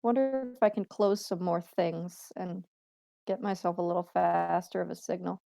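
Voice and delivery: garbled robotic line; glitchy robot voice on a bad signal. Real, not acted. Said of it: "The robot sound to your voice".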